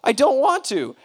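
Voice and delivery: loud, high-pitched protest; emphatic refusal. Retold or imitated. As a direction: push back hard, pitch jumping up. Refusing God's request in retelling.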